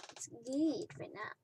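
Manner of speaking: soft whispered repeats; whispering. Real, not acted. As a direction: whisper it to yourself.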